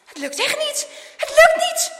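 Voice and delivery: high, building to a yell; escalating frantic shout; panicked shout. A narrator's reading. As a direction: cry out that you're stuck. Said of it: "schreeuwt hij".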